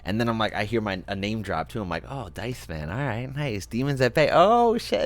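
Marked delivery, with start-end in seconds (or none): 2.1-5.0 building up to a thrilled yelp; excited surprise. Retold or imitated. Retelling hearing his name, growing excited.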